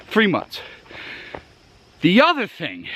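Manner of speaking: breathless from the hike; puffing between words, out of breath. Real, not acted. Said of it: "wow, I'm out of breath".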